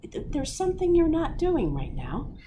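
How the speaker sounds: starts level, climbs to a high, loud breathe; the brain realizes and yells at you to breathe; brain building to a shout. Pretend. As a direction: build from puzzled to a sudden bark. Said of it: "your brain's like".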